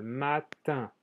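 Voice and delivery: Matin, ending on a nasal vowel. Shown as a demonstration. Teacher repeating the French word after naming its sound, nasal ending. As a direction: split Matin gently, nasalizing the final -in without an n. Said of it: "soy de una sal".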